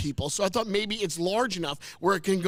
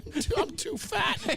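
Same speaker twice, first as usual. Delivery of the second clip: laughing; 7 semitones higher, slower than usual. Real, not acted. Belt too tight, laughing.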